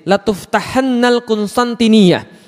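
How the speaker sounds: slow recitation, holding the doubled n in tuftahannal; stressed doubled nun. Shown as a demonstration. Preacher showing Arabic grammar, tuftahannal with emphatic held n. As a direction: stretch "tuftahannal" on its long nn. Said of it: "nunnya kemudian ditasydid".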